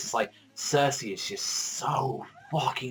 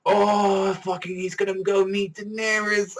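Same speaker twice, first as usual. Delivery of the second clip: much higher, louder, gleeful rush; fanboy excitement; 10 semitones higher, 4 dB louder than usual. Retold or imitated. Fan imagining Tyrion meeting Daenerys: high excited glee. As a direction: squeal like a fan seeing the trailer. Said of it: "I'm like".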